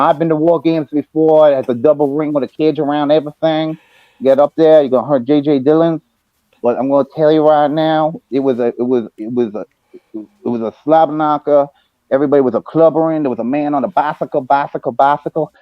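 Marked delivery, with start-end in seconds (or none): 4.2-15.5 Dusty promo. Retold or imitated. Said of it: "as Dusty Rhodes".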